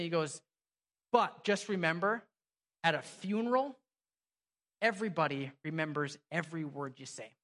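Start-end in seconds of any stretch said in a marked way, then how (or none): 1.1-7.3 measured retold warning, dropping lower at the end; super serious. Pastor friend warning him about funerals, super serious. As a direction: imitate a friend turning grave, with weighty pauses. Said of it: "looking at me super seriously".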